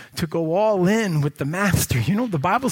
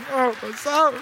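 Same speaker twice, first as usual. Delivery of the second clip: mock apology; 10 semitones higher, 4 dB louder than usual. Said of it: "I'm like".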